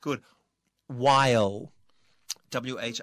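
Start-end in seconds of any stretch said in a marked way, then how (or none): 1.0-1.6 loud, drawn-out While ending on L; pronunciation demo. Shown as a demonstration. Teacher models another ILE word, loud stretched While. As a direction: glide slowly through While to the L. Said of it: "ที่ลงท้ายด้วย I L E".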